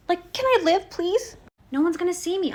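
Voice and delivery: high, loud, exasperated whine; exasperated plea. Real, not acted. Fed up with grandma's nagging, high exasperated plea. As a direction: beg to be left alone, fed up.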